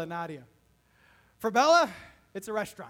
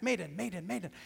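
said really fast; 2 semitones lower than usual. Shown as a demonstration. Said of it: "I said it really fast".

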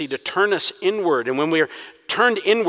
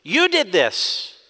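frustrated accusation; 5 semitones higher, slower than usual. Acted. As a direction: point the finger hard at You. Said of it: "It is a frustrated accusation".

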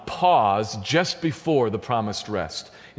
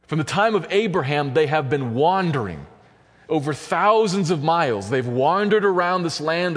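higher, driving sermon delivery; raised, insistent pulpit voice; impassioned preaching; 5 semitones higher than usual. Real, not acted. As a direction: preach the long wandering, building toward rest. Preaches at fuller force.

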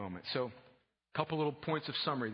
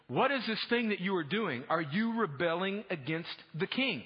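mildly jeering challenge, pitched up; 6 semitones higher, 5 dB louder than usual. Acted. Opponents jeering at Nehemiah before his people, jeering. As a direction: read it as a scornful accusation. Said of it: "they jeered at us and despised us".

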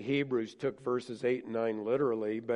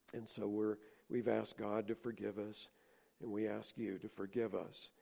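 gentle apology; 2 semitones lower, 6 dB quieter than usual. Shown as a demonstration. Parents confessing to the kids.

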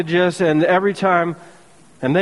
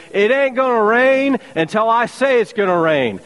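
high, bold challenge to the king; lightly voiced swaggering Elijah; defiant prophet; 7 semitones higher than usual. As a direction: declare it like a cocky prophet.

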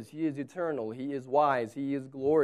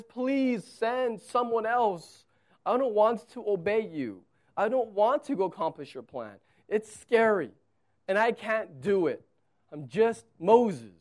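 Moses begging; 4 semitones higher than usual. Acted. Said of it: "He says".

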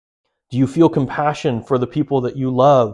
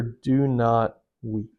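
gentle and slow; 4 semitones lower, 6 dB quieter, much slower than usual. Acted. Jesus speaking to widow.

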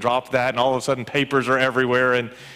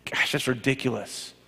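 scoffing laugh; 3 dB quieter than usual. Retold or imitated. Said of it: "incredulous, stubborn".

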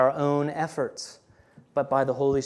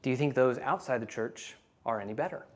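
gentle reply; 6 dB quieter than usual. Retold or imitated. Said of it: "he responded very gently, very gently".

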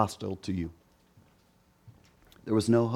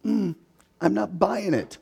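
unconvinced; 5 semitones higher than usual. Acted. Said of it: "And you're going".

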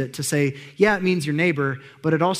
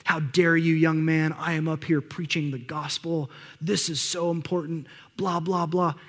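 retold angry yelling. Preacher berating the camera guy, mock angry yelling. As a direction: imitate an indignant telling-off without shouting. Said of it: "just yelling".

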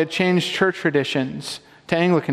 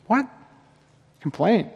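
a startled, rising What? Complaint?; mock shock; 4 semitones higher than usual. Preacher feigning shock at complaining in prayer, rising.

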